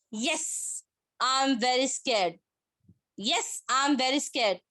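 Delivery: slow, halting mild show of fear; understated scared demo, pause after YES; acted scared. Shown as a demonstration. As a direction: draw it out as if a little scared. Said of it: "So both the tone is different".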